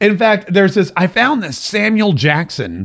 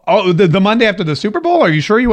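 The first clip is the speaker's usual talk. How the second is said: higher, hesitant check in his own voice; doubtful question; 4 semitones higher, faster than usual. Retold or imitated. Host replays his own doubtful reply to Herman Cain, unsure question. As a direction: stumble into a mildly doubtful question. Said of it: "And I go".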